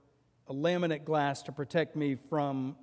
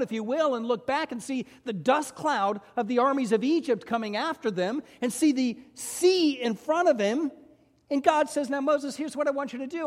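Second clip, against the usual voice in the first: higher, louder, fervent storytelling; preaching at full force; 7 semitones higher, 4 dB louder than usual. Acted. Preacher making the congregation picture Moses, fervent. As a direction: sweep them to the Red Sea. Builds Red Sea scene.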